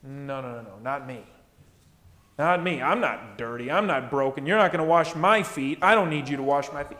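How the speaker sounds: lightly voiced refusal, low and dismissive; proud Peter. Pastor lightly acting proud Peter refusing the foot washing. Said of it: "what does Peter say?".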